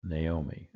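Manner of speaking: Naomi the English way, nay-OH-mee; everyday English "Naomi", starting nay; English pronunciation. Shown as a demonstration. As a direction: say "Naomi" with an "ay" first vowel. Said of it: "as we would say in English".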